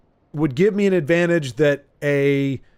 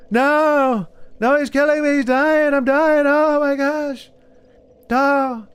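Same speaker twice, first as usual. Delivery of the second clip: imitating Lagmeister; 10 semitones higher, slower than usual. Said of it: "Lagmeister says that to me a lot".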